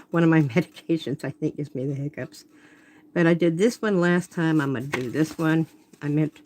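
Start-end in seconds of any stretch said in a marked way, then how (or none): 0.0-1.2 laughing. Real, not acted.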